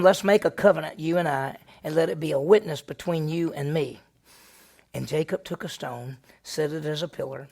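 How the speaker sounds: normal talking voice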